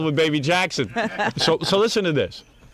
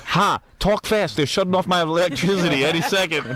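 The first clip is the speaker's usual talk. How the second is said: rushed Gary message; 5 semitones higher than usual. Retold or imitated. Gary's answering machine as power is cut, higher voice. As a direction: beg callers to hurry. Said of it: "it'll be like".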